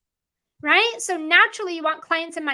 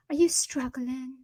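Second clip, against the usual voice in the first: slow, drawn-out mock sympathy; mock concern; 3 semitones lower, 4 dB quieter than usual. Coach parodying struggle-focused posts, mock concern. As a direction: draw it out, mocking the question. Mocking other marketers' negative posts.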